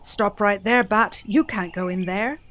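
stern Vulture. Acted. Vulture blocks Bat.

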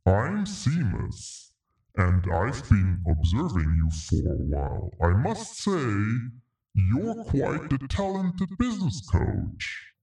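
lively leprechaun, pitch jumping up and down. Acted. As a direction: play a cheeky, playful leprechaun. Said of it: "use this voice for the leprechaun".

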